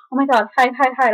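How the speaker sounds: high, urgent mock panic; freaking out. Grandma to granddaughter as dad arrives, freaking out. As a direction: imitate grandma frantically ordering you to hide. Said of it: "started freaking out".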